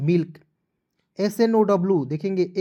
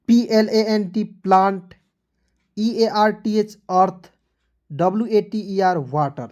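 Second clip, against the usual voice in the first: loud drill; 4 dB louder, slower than usual. Shown as a demonstration. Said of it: "rapid spelling drill".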